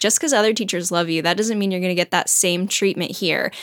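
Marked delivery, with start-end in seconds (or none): none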